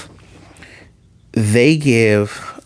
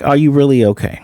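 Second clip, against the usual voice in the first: a lightly voiced concerned question; near-plain retold concern; mild worried asking; 3 semitones higher than usual. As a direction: ask gently, only a touch worried. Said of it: "this one's not much different than the other one".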